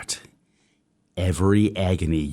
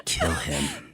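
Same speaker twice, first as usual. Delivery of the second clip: building to a shout; 3 semitones higher, slower than usual. Acted. Hindley egging Isabella to kill Heathcliff, growing to a yell. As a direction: hiss it, then scream it.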